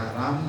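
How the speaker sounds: राम cut short on a closed m; wrong clipped ending. Shown as a demonstration. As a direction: end राम at the m, no vowel after. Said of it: "नहीं". (राम का गलत उच्चारण, म पर कटा हुआ)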